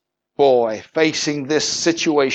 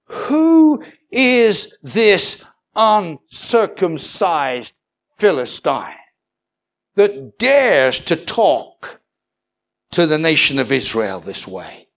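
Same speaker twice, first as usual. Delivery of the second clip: slow, high, loud challenge drawn out on Who; defiant young David calling out the giant; indignant retort; 3 semitones higher, 4 dB louder, slower than usual. Retold or imitated. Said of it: "he retorted".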